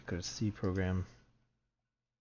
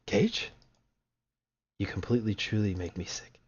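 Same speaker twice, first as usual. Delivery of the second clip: a touch of contempt as she leaves; game girl's farewell. Acted. Saying goodbye to the player, lightly voiced disgust. Character's parting words.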